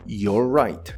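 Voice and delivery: ordinary delivery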